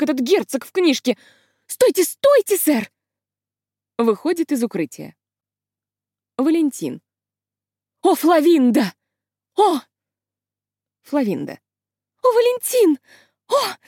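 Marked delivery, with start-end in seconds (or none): 1.7-2.9 high, loud pleading stop; girl stopping the hero from stabbing himself, high urgent cry. Acted. 8.0-9.8 rapturous greeting. Acted. Lovers meet in play. 12.2-13.8 high, loud swooning cry; rapturous cry. Acted. Heroine greets lover.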